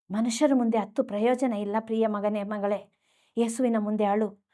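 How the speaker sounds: soft, low, tender appeal; tender consoling. Real, not acted. Preacher to a hurting child who cries alone, tender consoling.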